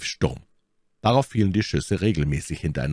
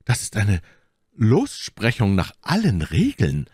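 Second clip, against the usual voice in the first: exclaiming, pitched up; Aramis; 5 semitones higher than usual. A narrator's reading. Aramis exclaims over the paper to his friends, calling out. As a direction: call it out in a higher voice. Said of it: "rief Aramis".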